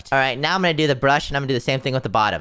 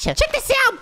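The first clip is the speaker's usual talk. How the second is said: yelling across the room. Real, not acted. Calling teammate over to look.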